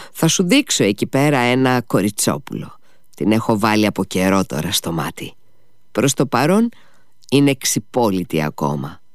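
coaxing, sly smile heard in the voice; with a long sly smile. Acted. Drunk father sweet-talks Ivan with a long, sly smile. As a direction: sweet-talk him with a crafty grin. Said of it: "με ένα μακρύ και πονηρό χαμόγελο".

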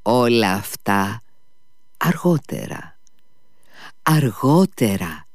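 slow, airy dismissal from the lady; dismissive lady. A narrator's reading. The lady putting Mitya off, airily dismissive. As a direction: wave him off, drawing it out. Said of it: "είπε η κυρία Χοχλάκοβα, χειρονομώντας".

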